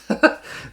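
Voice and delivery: short unvoiced laugh that hurts; a breathy laugh cut short by a headache; pained laugh. Real, not acted. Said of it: "when I laugh".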